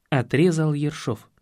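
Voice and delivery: usual speaking voice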